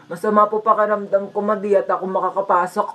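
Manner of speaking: subdued, put-on sick voice; faking feeling unwell; feigned sickness. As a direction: plead illness to skip school. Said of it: "nilalagnat ako para di na ako papasukin".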